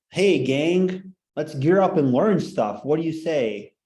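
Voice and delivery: mock rally the gang like a corny host; cheesy pep talk. Teacher mocking the book's cheesy tone, hammed-up and upbeat. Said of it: "some cheesy parts in it".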